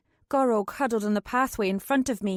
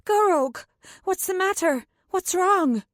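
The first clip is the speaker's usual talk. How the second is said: raised, alarmed calling out; 8 semitones higher, 4 dB louder than usual. A narrator's reading. Narrator calls to her guard in alarm. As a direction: call to him in sudden alarm.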